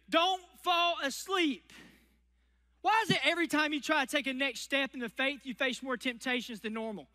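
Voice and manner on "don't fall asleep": urgent warning. Acted. Preacher voicing Paul's warning.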